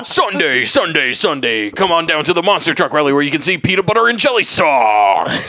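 booming monster truck announcer. Acted. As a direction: hype it like a rally ad. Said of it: "That was the voice you did".

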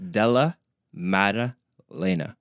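Della Maddalena said slowly, each syllable clear; slow careful name. Shown as a demonstration. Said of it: "Say that again?".

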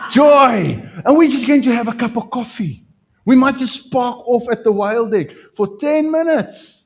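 loud, high, fast delighted rush; overjoyed. Real, not acted. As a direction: burst out with real joy. Overjoyed about coffee date.

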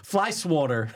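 SWATTER with aw, swaw-ter; fly SWATTER rhyming with water; tried-out pronunciation. Shown as a demonstration. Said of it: "That's weird".

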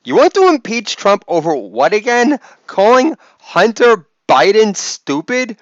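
lightly voiced indignant interviewer; Chris Wallace. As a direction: stretch out the outraged questions. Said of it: "That was Chris Wallace's reaction".

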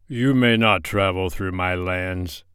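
slow, stately king's voice; a lordly African king, unhurried; stern king. Acted. The king speaks.

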